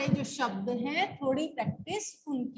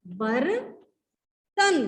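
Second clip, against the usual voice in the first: बर्तन drawn out very slowly; slow sounded-out word; much slower than usual. Shown as a demonstration. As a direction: stretch बर्तन so each sound is heard. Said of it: "sound पे जाएंगे". (बर्तन बहुत धीरे खींचकर)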